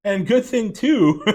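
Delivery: a real laugh breaking into the line. Real, not acted. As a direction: chuckle it out, amused at himself. Laughing at cancelling his TV.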